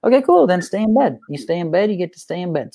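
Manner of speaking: happy to let him stay; dad cheerfully telling his son to stay in bed; upbeat dad. Retold or imitated. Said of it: "No, Dad".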